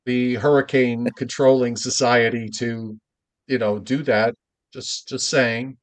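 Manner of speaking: deadpan mock innocence; tongue-in-cheek, understated sarcasm; sarcastic. Real, not acted. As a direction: play it dry, as if disclaiming all responsibility. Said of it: "I'm being sarcastic here".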